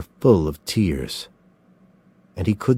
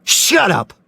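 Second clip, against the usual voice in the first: high loud snap; furious shout; 12 semitones higher, 4 dB louder than usual. A narrator's reading. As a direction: cut him off with a shout. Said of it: "Mills shouted".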